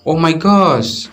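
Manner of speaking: high, drawn-out gasp of shock. Shown as a demonstration. Someone startled and frightened, crying out in shock. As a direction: sound truly startled. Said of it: "kaget gitu".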